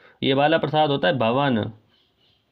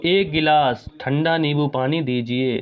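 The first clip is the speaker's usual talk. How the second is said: slow and clear; slower than usual. Shown as a demonstration. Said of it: "slow बोल रहा हूँ".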